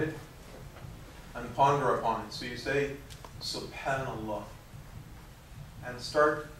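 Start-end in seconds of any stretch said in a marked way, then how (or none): 3.4-4.4 slow, softer "Subhanallah" with space around it; slow, pondered recitation. Shown as a demonstration. Teacher shows students how to ponder the dhikr, slow and deliberate. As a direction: say "Subhanallah" slowly, letting its meaning sink in. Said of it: "try to say it slowly".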